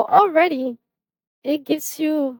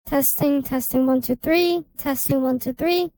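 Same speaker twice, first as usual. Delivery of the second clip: pitched-up vocal; helium voice. Shown as a demonstration. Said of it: "So again, Auto-Tune Pro".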